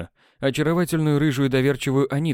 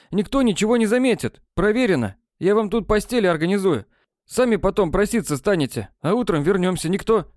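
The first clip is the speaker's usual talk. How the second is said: put-on higher, breezy voice of a cocky boy talking the girls round; cocky schoolboy; 9 semitones higher than usual. A narrator's reading. A boy coaxing the girls to stay, breezy and sure. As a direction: sell the sleepover like nothing can go wrong.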